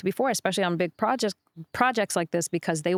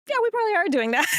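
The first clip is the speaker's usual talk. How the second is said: high-pitched, giggly admission; retold amused laughing; 12 semitones higher, much faster than usual. Dancer admitting she is overdoing it, kinda laughing. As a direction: imitate sheepishly owning up, voice lifted high into a laugh. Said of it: "I remember kinda laughing".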